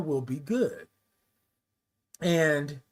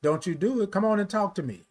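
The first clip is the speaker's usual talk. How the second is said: a lightly voiced motherly nurse, a bit higher; nurse's voice; 5 semitones higher than usual. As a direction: gently scold like a caring nurse. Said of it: "the one nurse would always say".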